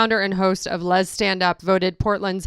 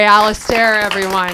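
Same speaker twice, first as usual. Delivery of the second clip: announcing again; 6 dB louder than usual. Shown as a demonstration. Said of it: "I'm sorry".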